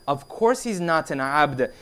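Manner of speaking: slow, composed agreement; measured reply. Retold or imitated. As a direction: quote the Imam calmly and deliberately. Imam's measured reply, acted.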